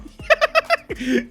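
very high, squealing laugh; long high-pitched giggle; helpless laugh. Real, not acted. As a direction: crack up in a squeal. Groot's antics amuse him.

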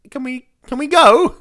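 loud, high, slow fed-up passenger; mock impatience. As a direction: call out in put-on exasperation. Imagined fed-up bus passenger complaining.

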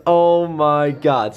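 panting between words after running; breathless from running; out of breath. Real, not acted. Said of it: "I'm out of breath".

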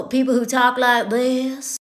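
lightly mocked old-money Southern accent; a hint of a rich Southern drawl. Shown as a demonstration. Mocking old Southern money, a light drawl.

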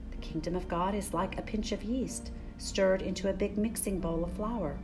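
ordinary delivery

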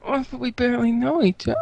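high, fast flustered protest; flustered nerd. Acted. August protesting to Al, high and fast. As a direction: blurt it out.

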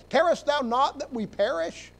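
frightened disciples in the storm; panicked plea. Acted. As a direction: disciples crying out to the sleeping Lord, alarmed.

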